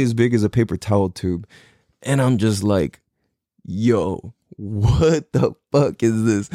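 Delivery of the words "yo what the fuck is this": a slow, retold gape of amazement; slow stunned question. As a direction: drag out the disbelief, slow. Gaping at the huge blunt.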